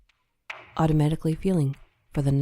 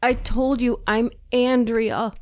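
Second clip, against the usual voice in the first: voice breaking; 8 semitones higher, 4 dB louder, slower than usual. A narrator's reading. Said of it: "Her voice broke".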